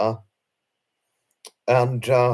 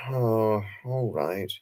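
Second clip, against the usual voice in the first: resigned sigh; 5 dB quieter, slower than usual. Retold or imitated. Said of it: "I let out a sigh".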